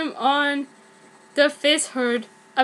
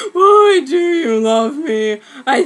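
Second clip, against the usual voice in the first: mock-dramatic question; 8 dB louder than usual. Confused love confession.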